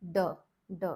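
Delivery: "D" with tongue tip on the palate; palate D demo. Shown as a demonstration. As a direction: say "D" against the roof of the mouth. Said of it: "tip of the tongue is again touching the palate".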